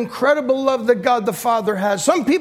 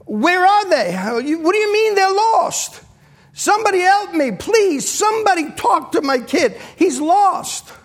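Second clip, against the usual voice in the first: put-on a father begging anyone to find his lost kid; mock panic of a father whose child is lost; panicked father; 5 semitones higher than usual. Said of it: "I'm panicking".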